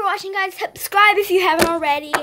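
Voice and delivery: slightly lisping orthodontic speech; tongue crowded by palate appliance; speaking with braces and expander. Real, not acted. Seen 3: Brackets visible on teeth; expander seen at -12 in palate.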